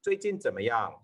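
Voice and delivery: "最近怎么样" said fast as one unit; quick native run. Shown as a demonstration. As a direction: rattle off "最近怎么样" casually. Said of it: "learn that pattern of the sentences".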